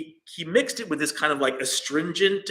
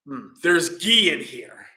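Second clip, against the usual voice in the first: slow, louder "there's ghee in here" with "ghee" leaned on and falling; mock discovery; 5 dB louder than usual. King tasting the medicine, slow and suspicious.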